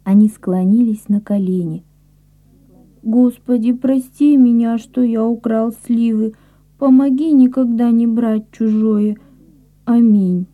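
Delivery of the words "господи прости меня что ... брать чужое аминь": put-on child praying. Child's tearful prayer.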